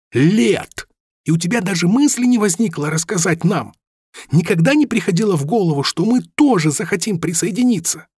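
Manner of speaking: high, fast, heated reproach; indignant accusation. A narrator's reading. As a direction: hurl the grievance at him. Rami accuses Robin angrily.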